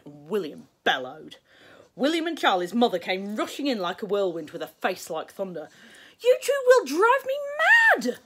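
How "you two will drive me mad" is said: high, loud, slow furious shout; stormed. A narrator's reading. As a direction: storm at the boys, fed up. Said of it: "she stormed".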